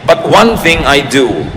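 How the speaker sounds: slow, measured Bible verse recital; unhurried preacher quoting scripture; scripture reading. Real, not acted. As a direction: read the verse out slowly and deliberately.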